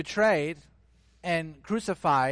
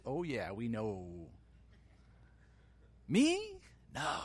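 boastful Peter. Retold or imitated.

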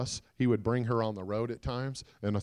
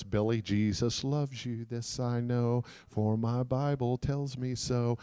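slowly recited, lightly voiced grandma; a hint of grandma's slow recitation; grandma's words; 3 dB quieter, slower than usual. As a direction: recite it slowly, lingering on each word. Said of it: "His grandma's words".

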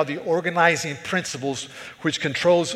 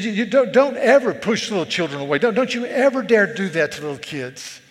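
louder, firm, indignant warning; angry warning; 4 semitones higher, 4 dB louder than usual. Retold or imitated. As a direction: warn them sternly never to do it. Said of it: "He was, he was angry".

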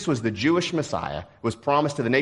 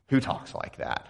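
whispered jab; 6 dB quieter than usual. Retold or imitated. Colleague mocking his wording.

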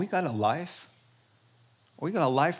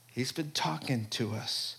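soft; 2 semitones lower, 5 dB quieter than usual. Shown as a demonstration.

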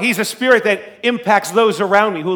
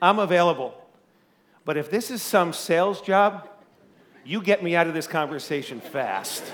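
a lightly hushed, softer retold prayer; 2 semitones lower, 6 dB quieter than usual. Praying to God beside his wife, mildly hushed. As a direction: murmur it like a private prayer to God. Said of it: "I whisper a short, heartfelt prayer".

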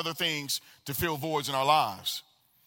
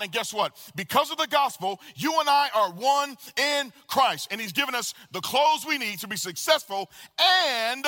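higher, emphatic pulpit delivery; impassioned preaching; 5 semitones higher than usual. Real, not acted. Preacher telling church you and I are one, fervent. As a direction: build it with fervour and drive.

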